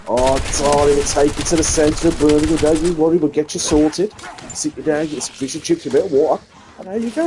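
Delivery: motherly Brummie voice settling tourists down; lightly voiced Birmingham host. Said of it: "that's what they get greeted with".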